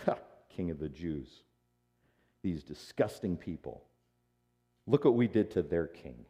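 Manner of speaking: low, muted scorn; mocking contempt. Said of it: "but the soldiers mocked".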